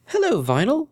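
happy high greeting over the phone; tinny phone voice. Acted. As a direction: sound like a friend on the phone. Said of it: "slightly tinny voice of her friend greeted happily".

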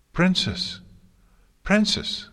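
high, loud, urgent calls; panicked cry. A narrator's reading. Twilight to her collapsing mentor, panicked cry. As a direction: cry out twice in high-pitched alarm.

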